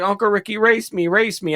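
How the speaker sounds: mock a small kid pleading to race; imitating his niece. Little niece begging her uncle to race, mock child voice. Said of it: "My youngest niece was like".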